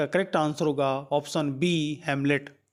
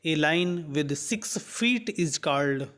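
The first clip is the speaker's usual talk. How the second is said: reads the English question out word by word, very slowly; slow question reading; much slower than usual. Acted. Teacher reading the quiz question aloud to students, slow and deliberate. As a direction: dictate it slowly so students can follow.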